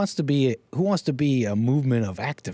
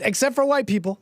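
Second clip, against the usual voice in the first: sarcastic quip; 9 semitones higher than usual. Retold or imitated. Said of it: "I quipped".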